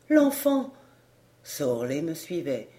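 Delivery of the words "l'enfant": high, loud panicked cry; mother's cry. Acted. Mother running from the bedroom, high panicked cry. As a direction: scream it out in terror. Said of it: "Elle me crie".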